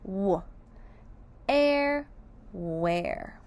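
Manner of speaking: W then air, then where; sounding out where. Shown as a demonstration. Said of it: "make that air sound".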